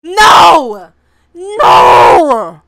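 loud drawn-out disbelieving cries; long loud wailing no; shocked shouting. Real, not acted. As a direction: holler no in stunned disbelief. Shocked by twins.

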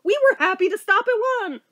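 high, incredulous mock-mother voice through laughter; laughing mom. Mom reminding sobbing child who asked for this, imitated laughing protest. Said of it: "she's laughing".

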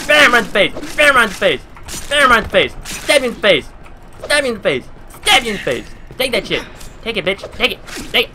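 real frenzied combat shouts; battle yells. Real, not acted. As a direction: yell with every blow. Hitting monster, yelling.

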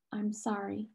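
soft, understated sob; a small tearful apology; sobbing. A narrator's reading. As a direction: apologise softly through tears. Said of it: "she sobbed finally".

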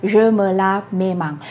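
very slow, "mes" said clearly; teacher repeats the wrong form very slowly; slow wrong example. Shown as a demonstration. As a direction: repeat the error deliberately. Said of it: "ประโยคนี้ผิดนะคะ".

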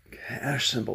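yawning through "cash symbol"; words stretched by a yawn. Real, not acted. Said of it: "that yawn came on".

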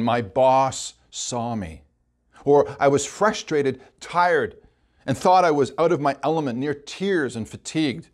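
slow, deliberate, tender read of each phrase. Acted. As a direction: savour every word, slowly. Preacher rereads the moving testimony.

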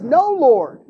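loud, firm "No, Lord" as Peter; emphatic refusal. Acted. Preacher voicing Peter refusing God, loud and firm. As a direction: push back hard on the word No.

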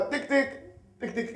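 short spoken tick-tick taps; light rhythmic tapping noises; imitated hammer tapping. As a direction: mimic a dentist's hammer tapping. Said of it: "דופק לך".

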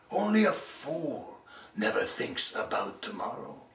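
slow, stern crow's put-down; the crow scolding the sparrow; crow's verdict. Acted. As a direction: hand down the last word.

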